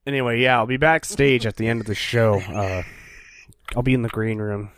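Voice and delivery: low, casual come-on in character; low-key backstage invitation; sleazy proposition. Retold or imitated. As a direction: drop the pitch and offer it offhand, with pauses. Voices Shredder propositioning the moms.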